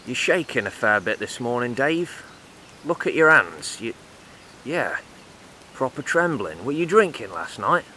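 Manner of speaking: lightly voiced builder needling a shaky mate; teasing builder. Acted foreman teasing Dave.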